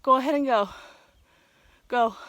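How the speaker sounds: loud call to go on; shouting. Real, not acted. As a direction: call out so they hear. Calling out to others.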